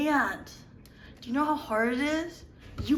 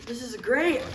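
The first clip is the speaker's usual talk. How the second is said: ordinary talk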